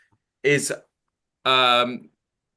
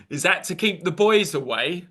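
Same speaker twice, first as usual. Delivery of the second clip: higher-pitched, rising cheeky question; playful teasing; 5 semitones higher than usual.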